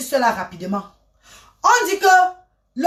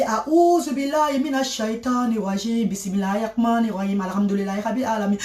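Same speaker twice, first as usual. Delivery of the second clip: reciting prayer; 3 dB quieter than usual. Shown as a demonstration. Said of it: "Je commence à faire la prière".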